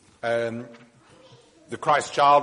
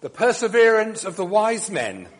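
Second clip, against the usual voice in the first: solemn liturgical blessing; formal blessing; 2 semitones higher, 4 dB louder than usual. Acted. Priest gives the blessing.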